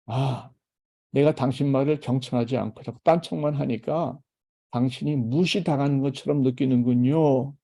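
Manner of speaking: a spouse calmly validating a partner who feels ignored; gentle empathy. Shown as a demonstration. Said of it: "이게 공감입니다".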